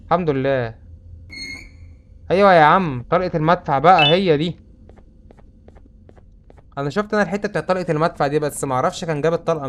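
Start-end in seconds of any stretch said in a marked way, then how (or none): 2.3-4.6 excited. Real, not acted. Found the cannon shell.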